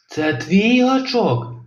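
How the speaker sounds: slow, drawn-out sea monster question; menacing monster. Acted. Kronosaur interrogating Robin, slow menacing monster voice. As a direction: loom over him slowly.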